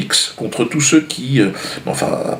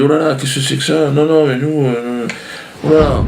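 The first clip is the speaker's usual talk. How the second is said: higher, flustered mock refusal; 5 semitones higher than usual. News agency balking at a complaint, mock fluster. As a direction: play a put-out agency balking. AFP reacting in alarm to the complaint.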